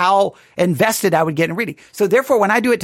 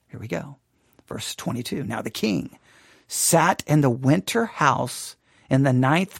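low, soft storytelling; hushed suspense; 7 semitones lower, 6 dB quieter than usual. Acted. Preacher warning of the king's reaction, hushed suspense. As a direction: draw listeners in with quiet foreboding. Builds suspense telling the Bible scene.

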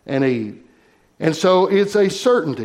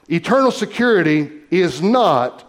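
"not" set apart at the end, then a pause; stress on NOT. Real, not acted. Preacher warning the congregation about eternal security, stress on "not". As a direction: land firmly on "not" and stop. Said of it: "I want to emphasize that word not".

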